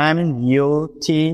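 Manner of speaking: এম ইউ টি spelled slowly, letter by letter; slow letter-by-letter spelling. Shown as a demonstration. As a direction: spell each letter of এম ইউ টি distinctly. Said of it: "দেখুন কিভাবে হচ্ছে".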